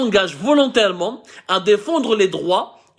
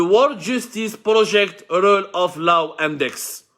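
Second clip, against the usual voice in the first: slow, careful English in an Algerian French accent; real accented English; much slower than usual. Real, not acted. Vlogger giving viewers the index's English title, accented English. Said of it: "mon anglais est catastrophique".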